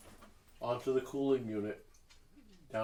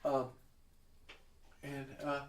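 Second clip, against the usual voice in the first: grand halfling hostess; 11 semitones higher than usual. Acted. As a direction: sweep in and scold like a diva expecting applause. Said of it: "she looks at you and she goes".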